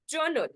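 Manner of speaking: "Journal" said alone as a model; "Journal", careful stand-alone teaching word; model pronunciation. Shown as a demonstration. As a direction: demonstrate "Journal" clearly as two syllables. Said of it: "This is journal".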